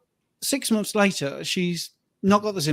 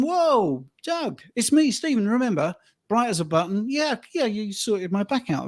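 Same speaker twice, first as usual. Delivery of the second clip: cheerful greeting; 4 semitones higher than usual. Retold or imitated. Greeting former client in park.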